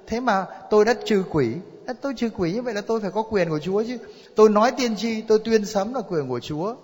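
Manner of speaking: high, pressing argument; indignant self-justification. Acted. Acted claimant arguing before the Lord.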